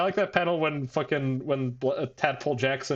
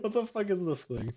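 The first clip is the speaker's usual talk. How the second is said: high, softer frightened voice; mild mock terror, pitched up; scared hushed quote; 7 semitones higher, 4 dB quieter than usual. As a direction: recoil from the thing in fear.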